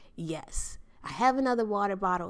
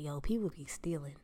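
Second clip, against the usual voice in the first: whimpering please please, rising to a wail; half-joking tearful begging; mock desperate pleading; 4 semitones higher, 7 dB louder, slower than usual. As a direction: beg like your life depends on it. Begging note to neighbor, pleading.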